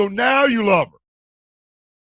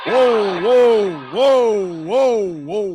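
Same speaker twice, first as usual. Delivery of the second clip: surprised whoa; 4 semitones higher, 5 dB louder, much slower than usual. Real, not acted. Reacting to blackmail news.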